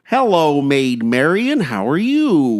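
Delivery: loud, high, badly faked English accent; mock an actor's failed English accent; hammed-up, swooping bad-accent line reading. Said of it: "Kevin Costner".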